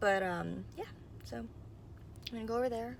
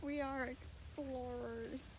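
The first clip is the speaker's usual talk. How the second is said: nature documentary; 5 semitones higher, 6 dB quieter, much slower than usual. Pretend. Echoes documentary intro slowly.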